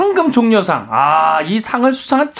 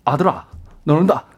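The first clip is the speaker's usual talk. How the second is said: 낮고 조용한 아버지 목소리; 아들에게 감탄하듯 낮게; 7 semitones lower than usual. Retold or imitated. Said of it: "한번 읊어봤습니다". (낮은 아버지 목소리 흉내)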